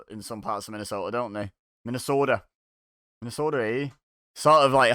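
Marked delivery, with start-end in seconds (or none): 1.8-2.4 light mock Minnesota accent on "Minnesota". Viewer trying out the hybrid local accent, mock Minnesota accent. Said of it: "hybrid kind of accent". 3.2-3.9 put-on half-Canadian Minnesota accent, tagged with a rising "eh"; mock Canadian accent. Viewer joking Minnesota is halfway to Canadian, mock Canadian accent. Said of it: "halfway to Canadian".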